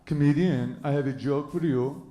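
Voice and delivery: lightly put-on French accent; French accent, lips pushed forward; mock French accent. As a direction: imitate a French guy pitching a joke. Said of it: "that's how they do their lips".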